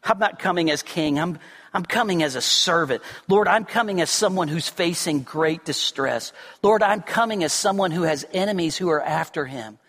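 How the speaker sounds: bow low and speak the prayer humbly; humble prayer. Retold or imitated. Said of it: "We approach him humbly".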